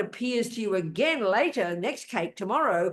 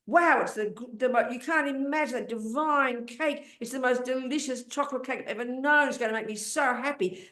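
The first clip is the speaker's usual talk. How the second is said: mock rapture over cake. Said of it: "When you describe the cake".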